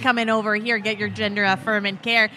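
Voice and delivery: mock Minnesota lilt, lightly done; a playful hint of a Minnesotan accent, stretched out; lightly put-on Minnesota accent. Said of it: "Do my Minnesotan accent".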